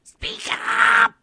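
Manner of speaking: high, loud shout. Retold or imitated. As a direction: yell it down the phone line. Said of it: "trying to say".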